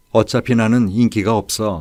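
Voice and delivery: plain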